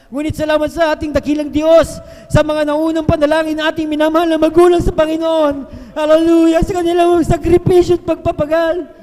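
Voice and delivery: loud, rising testimony with hallelujahs; fervent preaching. Acted. Preacher praising God to the congregation, loud and fervent. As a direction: lift it up like a revival preacher.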